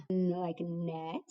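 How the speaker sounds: slow teacher voice isolating the n sound in net; letter sound demo. Shown as a demonstration. Teacher modelling letter sounds for young writers, slow. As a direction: say n, then like net, slowly for children. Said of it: "Our next syllable is na".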